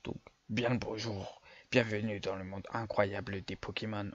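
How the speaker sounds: a hint of a kindly old man. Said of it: "je vais faire une voix de vieux".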